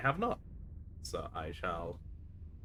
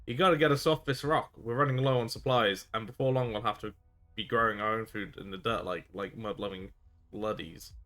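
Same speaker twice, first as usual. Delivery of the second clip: a stranded rogue begging to be picked up; rough pirate castaway. Acted.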